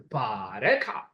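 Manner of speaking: "bareka" with a rising tone. Shown as a demonstration. Teacher contrasting tones on one Ge'ez word. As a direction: model "bareka" with the tone going up. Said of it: "when you say it with a rising tone".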